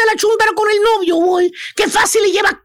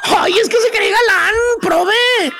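imiter une femme qui rit en répondant; riéndose, imitated laughter. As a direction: moquerie rieuse, jouée. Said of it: "riéndose".

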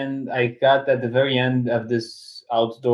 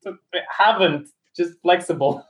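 higher, drawn-out sarcastic quote; 6 semitones higher than usual. Retold or imitated. Student mocking own yoga inexperience, very sarcastic. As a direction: lay on the sarcasm, pitched up with a laugh. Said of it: "with a very sarcastic voice".

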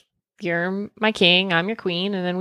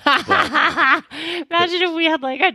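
giggling through the words; laughing; 7 semitones higher, slower than usual. Real, not acted. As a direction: laugh while speaking. Laughing at slot machine idea.

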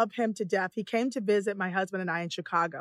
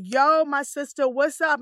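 drawn-out, overfamiliar mock greeting; slow put-on street greeting; imitated try-hard white person; 3 semitones higher, 3 dB louder, slower than usual. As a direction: mimic someone trying too hard to sound cool. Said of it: "white people that be like".

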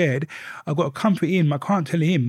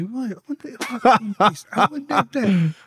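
higher, lightly voiced self-musing; musing to himself; 6 semitones higher than usual. Quoting himself wondering what he's got, lifted. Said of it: "I say".

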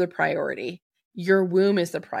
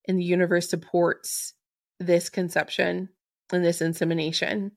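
said very slowly. Shown as a demonstration. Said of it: "I'm going to say this very slowly".

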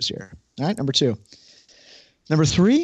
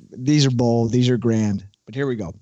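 infomercial voice. Acted. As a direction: hype it like a TV ad. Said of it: "starting the year off with a little infomercial voice".

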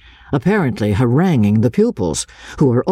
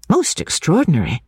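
lady's voice; 5 semitones higher than usual. Acted. Miss Halcombe voiced.

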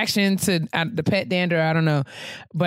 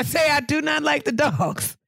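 higher, raised voice pressing her point; emphatic shout; 7 semitones higher than usual. Real, not acted. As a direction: shout it like you mean it. Insisting she hates dogs.

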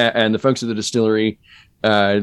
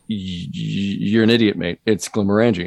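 Glaswegian guy. Retold or imitated. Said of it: "who grew up near Glasgow".

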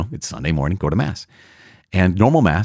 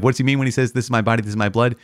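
higher-pitched, quizzical lilt; raised pitch, playfully rhetorical; mock puzzled question; 5 semitones higher, faster than usual. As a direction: ask it like a mock-baffled questioner. Voices a doubter's obvious question.

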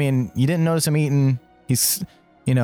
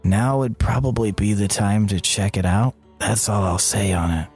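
low, slow confiding crew member; lightly voiced cagey sailor, unhurried; guarded crewman; 6 semitones lower, slower than usual. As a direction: drop it low, slowly letting a secret slip.

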